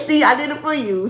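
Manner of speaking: said through a laugh. Real, not acted. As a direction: laugh as you tease them. Laughing after doing requested accent.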